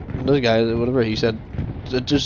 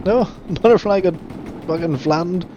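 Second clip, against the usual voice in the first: laughing; 5 semitones higher than usual. Real, not acted. Teammate gets flattened, laughing.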